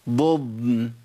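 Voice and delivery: ضضن slow, moving ض then a long still ض; two distinct Dads. Shown as a demonstration. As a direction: hold the second ض of ضضن before the nun. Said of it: "أبين الفرق بينهم".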